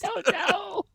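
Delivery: high little character voice; put-on silly voice. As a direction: answer in a squeaky made-up voice. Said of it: "I just wanted to do a voice too".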